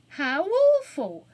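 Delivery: put-on girl exclaiming in shock. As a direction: gasp in horror. Anthea shocked.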